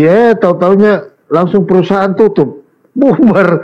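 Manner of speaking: laughing. Real, not acted. Punchline of joke about payday.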